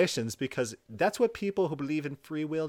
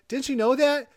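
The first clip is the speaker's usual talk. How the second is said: mock scream; 9 semitones higher, 6 dB louder than usual. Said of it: "how loud do I have to scream".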